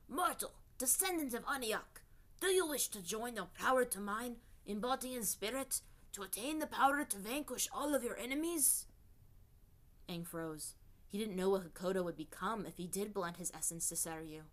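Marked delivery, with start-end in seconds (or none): 0.1-8.9 higher, otherworldly serpent spirit; unearthly voice. Acted. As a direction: tempt him like an ancient snake god. Seryu tempts Hakoda.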